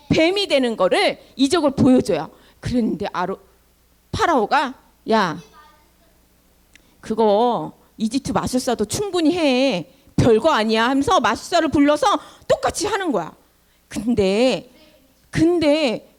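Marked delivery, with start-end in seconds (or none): 5.1-10.9 lightly voiced low, scornful king; dismissive Pharaoh. Pharaoh waves away Moses's miracle, mildly dismissive. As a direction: brush it off in a lowered voice.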